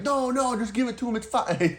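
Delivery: a quick hint of a fussing old lady; elderly wife. Customer's elderly wife quoted.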